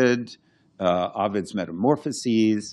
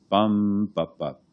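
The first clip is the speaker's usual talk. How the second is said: bum stressed, both bup short and lighter; one long beat then two quick short ones; dactyl beat; slower than usual. Shown as a demonstration. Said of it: "a dactyl sounds like".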